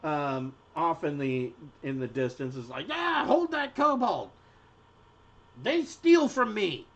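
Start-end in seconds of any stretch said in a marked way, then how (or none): 2.9-6.9 high-pitched shout for help; indignant market shopkeeper yelling; irate shopkeeper calling out. Acted. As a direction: cry out after a thief, voice pitched high. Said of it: "the shopkeeper".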